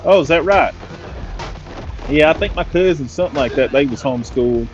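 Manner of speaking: chatty imitation of a Southern local; mock Southern US accent; redneck mechanic. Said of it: "at the mercy of these rednecks".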